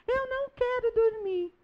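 put-on a child protesting bedtime, high and whiny. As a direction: play the tired kid who won't sleep. Child answering the teacher.

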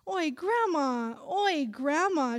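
slow mimicking singsong; grandma mocking her grandchild's whine. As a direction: throw the words back mockingly. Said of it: "she repeats back mockingly".

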